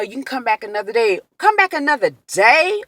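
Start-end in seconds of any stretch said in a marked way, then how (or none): 1.4-2.8 high-pitched, indignant questioning repeat; outraged retold echo, pitched up; incredulous echo. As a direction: throw the suggestion back in disbelief. Echoes the suggestion in angry disbelief.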